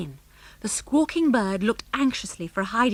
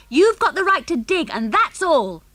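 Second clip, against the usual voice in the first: raised, indignant comeback; shouted retort; 8 semitones higher, 4 dB louder than usual. A narrator's reading. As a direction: shout back hotly. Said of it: "shouted back the two Harrys".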